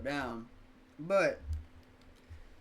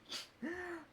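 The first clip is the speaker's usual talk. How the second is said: mock shocked gasp; 11 dB quieter than usual. Reacting to coworker walking off.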